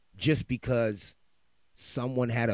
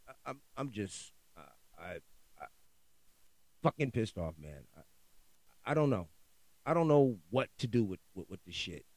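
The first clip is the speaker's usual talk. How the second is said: much softer, fading, defeated; deflated mumble; 4 semitones lower, 6 dB quieter than usual. Real, not acted. Frustrated podcaster trails off, quietly defeated. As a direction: let the anger drain into a mumble.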